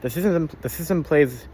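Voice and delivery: stuttering, repeating words. Real, not acted. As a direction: trip over the words. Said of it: "I'm stuttering a fuck ton".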